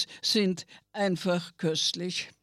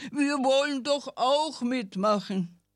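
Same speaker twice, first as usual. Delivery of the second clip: fish blubbering; 5 semitones higher than usual. Acted. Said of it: "blubberten die Fische".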